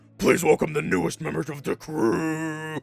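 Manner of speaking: booming, very loud death metal growl. Voicing a female character who welcomes new crew members: death metal voice. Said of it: "giving her a fucking death metal voice".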